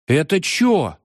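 a hint of a choked question; barely able to speak. A narrator's reading. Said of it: "еле смог выговорить Шейкин". (еле выговаривая)

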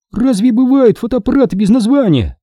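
Sherry in despair; despairing cry. A narrator's reading. Sherry despairs over the nameless camera, high cry. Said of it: "в отчаянии вскричала Шерри".

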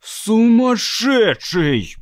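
slow, high, hissed in a rage; furious hiss. A narrator's reading. Brock losing his temper with the robot, hissing. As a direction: spit the word out at the robot. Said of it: "прошипел выведенный из себя Брок".

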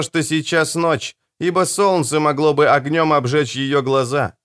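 a proud leader musing aloud; lightly voiced young chieftain. Karsa speaks, narrator voices him. (слегка приподнятый голос вождя)

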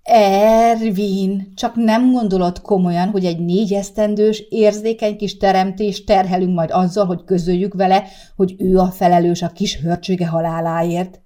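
snapping at husband. Acted. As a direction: tell him off, outraged. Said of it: "ripakodott Sárika a férjére". (Sárika felháborodottan, hangosan ráripakodik a férjére)

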